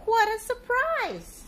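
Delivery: high, loud and slow; hammed-up delighted gasp of surprise; surprised. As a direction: savor the surprise with wide wonder. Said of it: "cried Pete".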